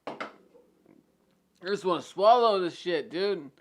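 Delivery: fighting the hiccups; strained through hiccups. Real, not acted. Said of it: "unable to breathe".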